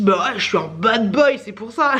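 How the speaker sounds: slow, playful bad boy act; lightly imitated tongue-in-cheek boast; joking bad boy. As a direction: play at being the bad boy. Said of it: "Il fait ça en rigolant".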